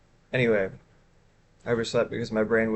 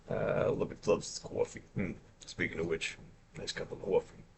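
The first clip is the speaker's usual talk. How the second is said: Charlie impression; 6 semitones lower, 13 dB quieter than usual. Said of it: "Impression's easier to do the more tired I am".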